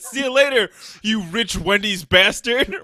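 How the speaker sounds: loud parting jeer; mock taunting yell. Customer driving away from the Wendy's cashier, loud mock taunt. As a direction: shout it back as you drive off.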